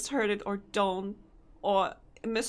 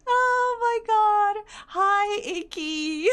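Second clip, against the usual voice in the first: surprised greeting; 10 semitones higher, much slower than usual. Real, not acted. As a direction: react like the raid caught you off guard. Surprised by raid.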